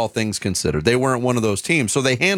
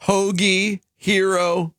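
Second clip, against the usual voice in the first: laughing; 8 semitones higher, much slower than usual. Real, not acted. Listing sandwich names laughing.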